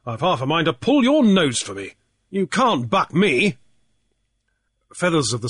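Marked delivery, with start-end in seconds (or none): 0.1-3.6 Cornelius voice. Acted. Cornelius's voice, higher.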